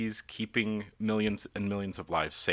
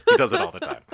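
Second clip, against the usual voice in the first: emphatic; 10 dB louder than usual. Real, not acted. Emphatic complaint about Kirk.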